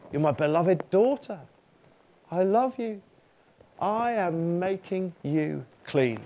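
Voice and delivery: put-on soft and tender, a loving father reassuring his child. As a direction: speak gently, as if embracing the listener. Jesus voiced speaking to believers.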